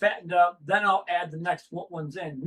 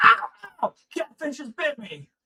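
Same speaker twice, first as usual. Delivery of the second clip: put-on high, swooping, girlish yelping squeal; 9 semitones higher, 3 dB louder than usual. Retelling a video of the other speaker bitten by a catfish: imitating screaming like a little girl. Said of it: "screaming like a little girl".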